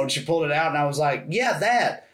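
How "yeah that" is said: higher smart-ass Scottish echo; mock Scottish accent. Tourist pointing at the bottle for the clerk, mock Scottish accent. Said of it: "I started doing her accent back to her".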